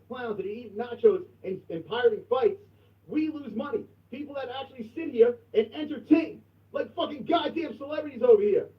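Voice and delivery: loud, high furious shouting; furious rant. Real, not acted. Host ranting at rival stream, furious shouting. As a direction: scream the rant at the rival channel. Angry rant at pirate channel.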